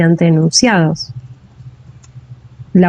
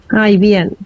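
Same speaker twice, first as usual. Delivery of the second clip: mock wavering student answer; cracked voice. Teacher imitating a student asked about the exam, mock cracked voice. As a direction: imitate a student's shaky, unsure reply. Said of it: "una voz quebrajada".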